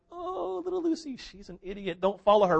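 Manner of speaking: high, scornful brush-off; mocking siblings. Brothers and sisters dismissing Lucy, high scornful. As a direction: wave little Lucy away with scorn. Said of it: "And they're like".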